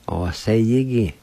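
"O se yi ki" blended into one word; joined-up pronunciation demo. Shown as a demonstration. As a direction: run "O se yi ki" together without breaks. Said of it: "is pronounced like this".

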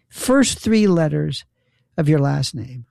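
slow, spelled-out instruction; insistent repeat. Retold or imitated. Poll worker correcting the voter, slow insistent repeat.

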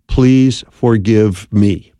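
"Please forgive me" said very slowly and earnestly, each word drawn out; slow heartfelt "Please forgive me"; slow sincere plea. Shown as a demonstration. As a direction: plead "Please forgive me" slowly, meaning it fully. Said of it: "six very powerful words".

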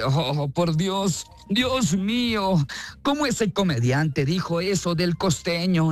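slow, mock-scandalized gasp to God; offended listener. Listener offended by a joke about costeños, slow mock outrage. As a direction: ham up a prim listener clutching pearls. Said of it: "y dice".

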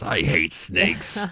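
slow, drawn-out mock yell at normal volume; Indiana Jones. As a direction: imitate a movie hero's cry, stretching each word. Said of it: "Harrison Ford just yells out as Indiana Jones".

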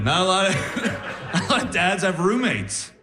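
usual speaking voice

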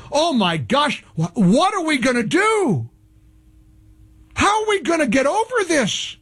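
mock dismay. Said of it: "capture my sarcasm".

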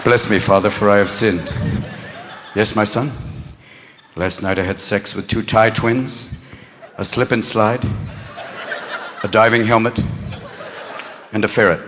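very low, confidential murmur; low, halting confessional voice with pauses; hushed confession. Acted. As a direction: confess it privately to a priest. Hushed confession between penitent and priest.

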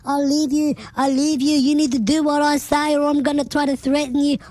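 a light mock of pushy wrestlers; mocking needy wrestler. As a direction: parody a desperate caller begging. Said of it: "squishy humans phoning up and going".

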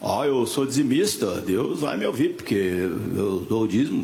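imitated tither. Voices a self-satisfied tither.

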